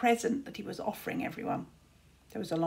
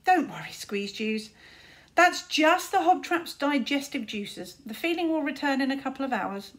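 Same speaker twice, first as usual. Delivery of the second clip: calling out; 4 semitones higher, 4 dB louder than usual. Acted. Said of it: "Tsar called out".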